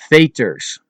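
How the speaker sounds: Veters with long ay, then uh; Dutch E sounds. Shown as a demonstration. Teacher giving an example, Veters with ay then uh. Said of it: "listen closely at the pronunciation".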